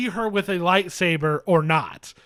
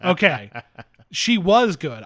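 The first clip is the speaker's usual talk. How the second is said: rant mode; 8 dB louder, slower than usual. Real, not acted. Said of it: "I'm full rant mode".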